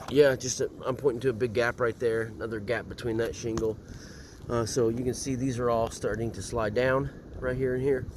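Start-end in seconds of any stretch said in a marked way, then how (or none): 2.4-8.1 stuffy nose, sniffling; sniffly. Real, not acted. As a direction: talk through a runny nose. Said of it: "I'm sniffly".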